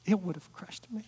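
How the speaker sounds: breathy whispered quote. Retold or imitated. Wife's confession retold.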